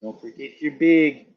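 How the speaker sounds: slow line with bag said as "big"; regional "bag". Retold or imitated. Echoing the shop teacher slowly, regional "big" for bag. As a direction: draw it out, saying bag as "big". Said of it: "a shop teacher that he said".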